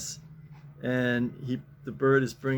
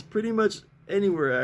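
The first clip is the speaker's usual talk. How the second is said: mom on the roof; 7 semitones higher, 4 dB louder than usual. Pretend. Mom voiced in comic.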